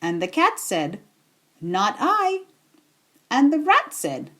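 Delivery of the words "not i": high, lazy cat voice; a lightly voiced cat brushing her off; cat's refusal. A narrator's reading. Lazy cat answering the hen, high voiced refusal.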